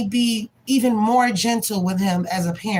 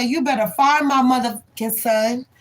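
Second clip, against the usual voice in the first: went off; 3 semitones higher than usual. Retold or imitated. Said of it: "Like, I went off".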